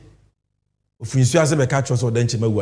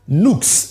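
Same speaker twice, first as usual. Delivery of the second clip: nucs set apart and given firm emphasis; 3 semitones higher than usual. Real, not acted. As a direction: lean on the single word nucs. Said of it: "emphasis on nucs".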